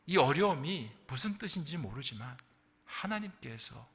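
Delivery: ordinary talk, nothing marked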